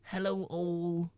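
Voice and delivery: high, slow, drawn-out hello; playful put-on hello; sing-song greeting.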